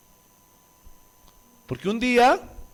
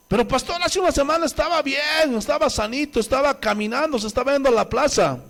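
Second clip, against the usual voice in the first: protesting relative; 5 semitones higher than usual. Retold or imitated. Voices family protesting to the pastor.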